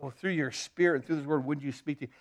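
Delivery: low, soft morning prayer; a hushed, humble request. Shown as a demonstration. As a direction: pray it quietly, just to God. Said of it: "and say".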